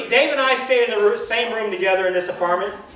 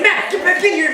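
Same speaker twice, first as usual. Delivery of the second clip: retold call out; 9 semitones higher, 4 dB louder than usual. Panicking driver yelling at friend.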